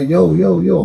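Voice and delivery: calling out. Retold or imitated. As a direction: shout for his attention over the noise.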